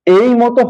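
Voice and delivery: এই pronounced "ey", like the letter A; "ei" glide on এই. Shown as a demonstration. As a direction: say এই as a gliding "ei". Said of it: "উচ্চারণটা হয়".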